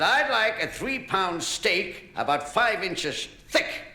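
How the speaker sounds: slow, drawn-out mock American accent; hammed-up American ordering a steak; high, slow American accent. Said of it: "the American said".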